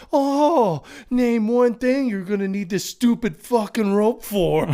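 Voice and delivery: high, loud, laughing taunt; laughing gloat. Retold or imitated. Connor gloating to Murphy about the rope, loud and laughing. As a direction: rub it in while cracking up.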